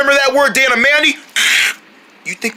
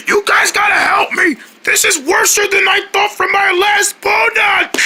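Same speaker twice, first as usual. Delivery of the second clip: panicked cries for help; 8 semitones higher than usual. Pretend. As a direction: beg friends to save you. Character in danger calling for help.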